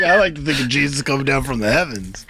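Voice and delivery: amused, teasing echo; laughing imitation. Host quoting the player's failed bit back, laughing imitation. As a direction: mimic through laughter. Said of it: "You're like".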